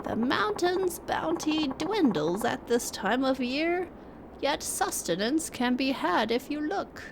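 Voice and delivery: put-on slow, lightly aged old man; a wise old hermit, unhurried. Reads old hermit NPC lines.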